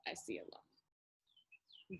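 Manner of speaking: whispered low and slow; slow whisper echo. Acted. Mascot repeats his line as a slow whisper. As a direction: let it hang in a slow whisper.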